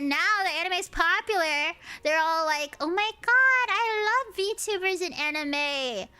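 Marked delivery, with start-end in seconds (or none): 2.8-6.1 high, loud mock squeal of adoration; gushing fangirl imitation. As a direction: gush like a fake new anime fan. Mocking newly converted anime fans.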